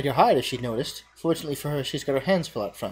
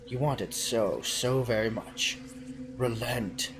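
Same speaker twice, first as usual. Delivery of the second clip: seductive cheese voice; 2 semitones lower, 5 dB quieter, slower than usual. Acted. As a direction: lure him in softly like a temptress. Cheese tempting.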